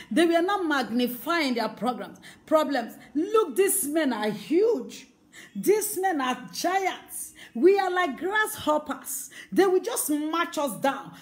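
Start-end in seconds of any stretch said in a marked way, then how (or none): 3.1-11.1 fearful spies. Retold or imitated. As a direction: act out the spies' dread.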